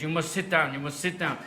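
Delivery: hammed-up, insistent woman with a mock Nigerian accent; badly faked Nigerian accent, brooking no argument; terrible Nigerian accent. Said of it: "if it's a really terrible accent".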